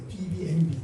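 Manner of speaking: 비비엠비 repeated slowly, each letter given its own beat; repeat the acronym. Shown as a demonstration. Preacher teaching the congregation the acronym, 비비엠비 letter by letter. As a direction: spell out 비비엠비 as separate letters. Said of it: "영어로 비비엠비 그래".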